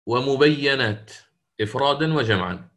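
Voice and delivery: ordinary delivery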